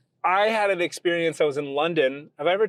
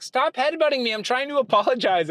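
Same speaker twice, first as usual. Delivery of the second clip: retold protest; 8 semitones higher than usual. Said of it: "and I was like".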